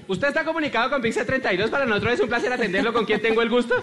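chirpy scripted phone greeting; call center operator. Retold or imitated. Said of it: "la vieja que contesta le dice".

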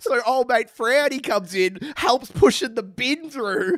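slow, high slow-motion telling. Pretend. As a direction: stretch it out like a movie replay. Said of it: "I love slow motion".

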